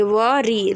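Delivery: वरी with a long ee at the end; full worry. Shown as a demonstration. Teacher modelling वरी for students. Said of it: "वरी पूरा बोलेंगे".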